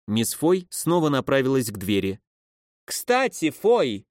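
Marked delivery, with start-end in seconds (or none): 2.8-4.1 raised call of the name; calling after her. A narrator's reading. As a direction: shout after someone leaving the room. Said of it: "крикнула ей вслед".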